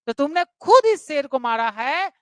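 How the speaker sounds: खुद lifted and pushed, ending on a rise; खुद stressed, sentence rising at the end. Shown as a demonstration. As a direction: weigh down on खुद: you yourself killed it. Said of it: "मतलब यह खुद मारना".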